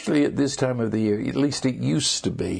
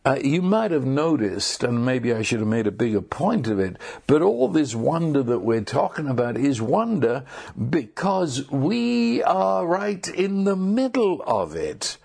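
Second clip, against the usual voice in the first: normal talking voice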